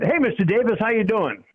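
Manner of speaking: put-on a young player thrilled to meet the owner; excited greeting. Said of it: "I just was excited".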